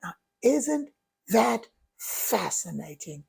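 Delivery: calm curiosity. Shown as a demonstration. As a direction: turn frustration into gentle wonder. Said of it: "I say to myself".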